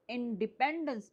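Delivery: इंडिपेंडेंस with the weight on pend; stress on PEND. Shown as a demonstration. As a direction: lean on the third syllable, pend, in इंडिपेंडेंस. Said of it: "डिपेंडेंस पर दे रहे हैं".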